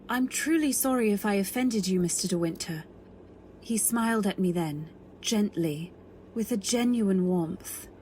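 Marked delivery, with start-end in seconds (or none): 3.6-7.9 story narration. A narrator's reading. Narration beside the scene.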